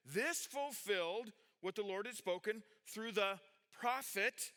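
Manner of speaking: prophet leaned on slowly; slow down and weigh the word prophet; drawn-out emphasis on prophet; stress on prophet. Shown as a demonstration. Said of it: "I emphasized the word prophet".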